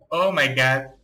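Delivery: ordinary delivery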